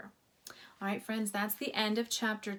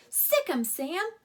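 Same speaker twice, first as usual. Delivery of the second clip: cheering yell; 7 semitones higher, 7 dB louder than usual. A narrator's reading. Everybody cheering the dog on.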